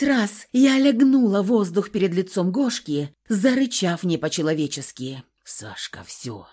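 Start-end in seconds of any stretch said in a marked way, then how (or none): 5.4-6.5 very low, soft exhale; breathed into her ear. A narrator's reading. Kolya softly breathing into her ear to stop her. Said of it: "Выдохнул Коля мне в ухо".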